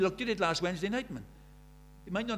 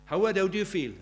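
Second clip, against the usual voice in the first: louder interviewer calling over the crowd; loud reporter calling to the boxer; 2 semitones higher, 6 dB louder, faster than usual. Retold or imitated. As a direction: push the question at him like a reporter with a microphone. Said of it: "They interviewed him and they said".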